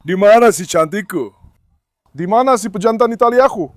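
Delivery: slow, cooing pet talk; slow doting coo to the dog. Real, not acted. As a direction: coo at your favourite dog.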